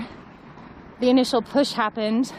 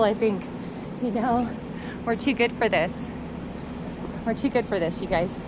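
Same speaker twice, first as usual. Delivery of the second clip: tearful, sniffly voice; speaking through tears, sniffling; after crying; 2 semitones higher than usual. Real, not acted. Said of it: "It's really cold and I'm crying".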